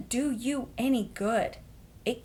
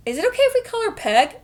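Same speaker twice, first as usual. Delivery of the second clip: laughing suggestion; 13 semitones higher, 7 dB louder, much faster than usual. Retold or imitated. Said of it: "And she was like".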